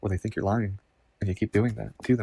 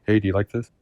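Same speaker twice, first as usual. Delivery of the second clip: demo of the inner voice; 7 dB louder than usual. Shown as a demonstration. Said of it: "I'll try to do it now with the inside".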